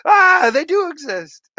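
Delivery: high, loud mock shock; hammed-up astonished yelp; M&M's commercial impression. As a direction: cry out like a startled advert character. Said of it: "M&M's Christmas commercial".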